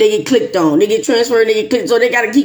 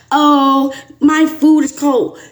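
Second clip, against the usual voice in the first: whiny complaint; 5 semitones higher, much slower than usual. Retold or imitated. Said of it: "coming up with something cuckoo crazy like".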